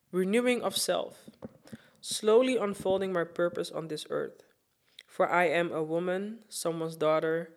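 measured, earnest spoken-word reading; proud, reflective spoken word; poem reading. Acted. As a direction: read it like a personal poem to women. Reads her own written poem.

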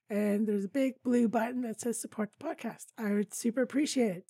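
hoarse, tired voice giving out. Real, not acted. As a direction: talk through a failing voice. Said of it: "It sounds like I'm losing my voice".

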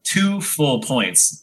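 slow, emphatic award; drawn out slowly. Real, not acted. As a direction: stretch every word out. Host awarding points, drawn out.

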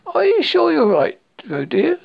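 high, loud motherly worry; anxious cry. A narrator's reading. Kanga jumping along the bank to Roo, anxious call.

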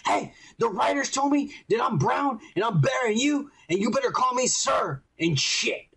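high, shouty mock bossy girl. Mocking the girl ordering the guard, high shout. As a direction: bark it like a smug bossy officer. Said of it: "the Mexican girl goes up to him and says".

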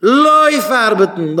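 loud, slow barked order to go work; mock shout. Father shouts at son. (צעשריגן: לויף ארבעטן)

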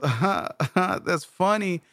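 half-hearted chuckle; practised token laugh, kept small; polite fake laugh. Shown as a demonstration. Brother rehearsing a laugh for his sister, half-hearted. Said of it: "give my sister one of those".

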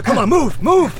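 high strained yell to keep going; urgent shouting. Acted. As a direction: push him on, shouting. Dragging wounded man to fence.

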